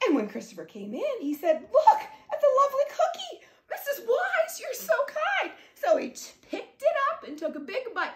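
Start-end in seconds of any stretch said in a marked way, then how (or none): 1.7-5.5 put-on higher, laughing kid voice; delighted child. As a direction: gush over the cookie. Christopher delighted by cookie.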